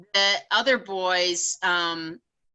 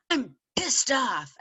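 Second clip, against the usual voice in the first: put-on teed-off teen; 5 semitones higher, slower than usual. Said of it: "I could tell he was really teed off".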